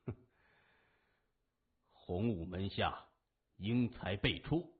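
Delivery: cold scoff, then measured pride; haughty sneer. A narrator's reading. Ren Changfeng answers his cornered enemy, haughty and sneering. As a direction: say it proudly, drawing out the end. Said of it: "才冷笑一声， 傲然地说".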